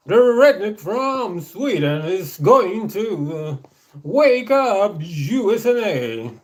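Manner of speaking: slow, high, drawn-out redneck preacher voice; redneck persona. Pretend. Playing his Daddy D Jones persona, slow and high-pitched. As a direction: stretch every word like a patriotic redneck. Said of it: "Daddy D Jones ... super patriotic stereotype".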